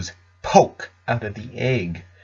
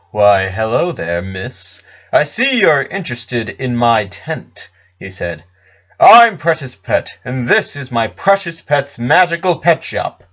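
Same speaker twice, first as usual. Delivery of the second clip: lightly voiced smooth pet seller, slower; slow showman salesman. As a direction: reel her in like a market showman, unhurried. Salesman greets Pinkie.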